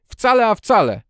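high, loud angry insistence; furious shout. A narrator's reading. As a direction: cry it out in fury. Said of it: "wykrzyknął wściekły".

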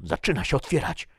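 high-pitched call, easing in volume at the end. A narrator's reading. Man ahead reports the bud opening, calling out high. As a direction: call back the news from the front. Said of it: "zawołał z przodu Tomason".

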